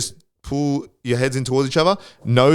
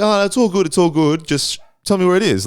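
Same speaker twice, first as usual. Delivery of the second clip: high-pitched, easygoing brush-off; mock polite refusal; 8 semitones higher than usual. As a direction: act out waving off help, voice pitched up. Acting out politely declining help.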